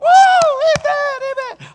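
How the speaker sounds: high, slow shouted amen; crowd shout. Retold or imitated. Preacher imitating the crowd, a high slow shouted amen. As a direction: holler it like the whole church.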